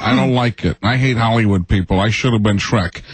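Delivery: lightly voiced gruff Madden; a hint of Madden's grumble; John Madden impression. Comedian imitating Madden to radio hosts, lightly voiced. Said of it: "the great John Madden impression".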